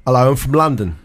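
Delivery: low mock London accent; imitated London accent. Shown as a demonstration. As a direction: introduce yourself in a put-on London accent. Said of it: "Number three is London".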